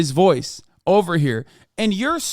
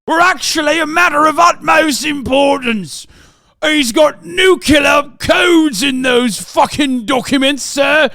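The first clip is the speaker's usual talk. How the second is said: ranting shout; 3 semitones higher than usual. Real, not acted. Ranting about nuclear codes.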